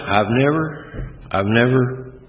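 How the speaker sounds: NEVER stretched slow and high; emphatic never. Real, not acted. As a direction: lean on never, slowly. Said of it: "repeated for emphasis".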